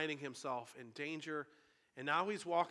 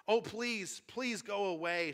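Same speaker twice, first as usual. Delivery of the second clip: higher, louder anxious plea; mild pleading; 6 semitones higher, 5 dB louder, slower than usual. A narrator's reading. Shasta begs the unseen thing to leave, mildly pleading. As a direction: read it as a frightened boy begging, lightly acted.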